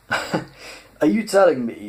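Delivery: put-on high, slow, laughing American-accented line; laughing disbelief. Ford, laughing at Zaphod, high and slow. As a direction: stretch it out through laughter. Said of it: "roared with laughter".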